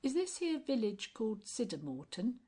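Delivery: lightly voiced cheeky tramp; sly, jokey old vagrant; cockney tramp. Tramp voice again.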